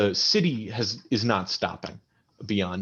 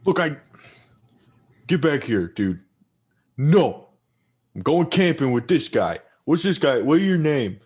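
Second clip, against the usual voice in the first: put-on high, slurring drunk arguing with his buddy; drunk quarrel; 6 semitones higher, 4 dB louder than usual. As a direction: snap at your drunk friend to calm down. Drunk campers bicker.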